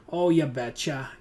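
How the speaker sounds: loud, drawn-out Minnesota catchphrase; Minnesota accent. Retold or imitated. Player imitating how folks up north talk, mock Minnesota accent. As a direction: quote a folksy Minnesota saying, slow and loud. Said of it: "if you're from Minnesota".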